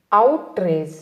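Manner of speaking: "అవుట్రేజ్" as OUT-rage; careful teacher's "అవుట్రేజ్", out then rage; model pronunciation. Shown as a demonstration. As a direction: sound out "అవుట్రేజ్" in two parts, out and rage. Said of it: "ఎలా పలకాలి".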